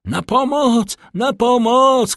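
high alarmed scream; screaming for help. A narrator's reading. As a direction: shriek for help, rising in force. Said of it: "krzyknęła panna d'Armilly".

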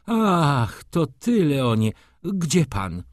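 high, agitated cry of recognition; worked-up baroness, voice jumping up. A narrator's reading. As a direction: exclaim in a flustered, high-pitched voice. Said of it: "zawołała wzburzonym głosem".

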